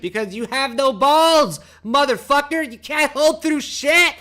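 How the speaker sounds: loud, high, laughing taunt; shouting through laughter, slowed at the end; laughing rant. Real, not acted. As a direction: laugh while you yell at them. Laughing rant at scared sellers.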